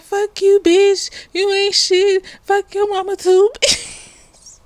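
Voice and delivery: high, heated mock insults; hammed-up tirade, breaking into a laugh at the end; going off. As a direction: hurl it at her like a petty girl. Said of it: "she's just going on".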